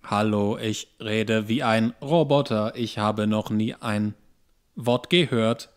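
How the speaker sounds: slow, stiff robot voice. Retold or imitated. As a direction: imitate a wooden actor reading like a robot. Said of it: "Die sind ja furchtbar".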